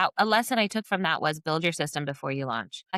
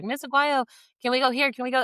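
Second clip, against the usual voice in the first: put-on high, eager kids begging to go; a lightly voiced eager student asking permission; 8 semitones higher, 3 dB louder than usual. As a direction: mimic pleading students, pitched way up. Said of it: "so they're".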